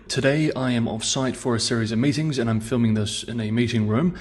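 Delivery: echoey meeting room sound; recorded in a boomy room; meeting room mic. Real, not acted. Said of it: "The acoustics are not very good".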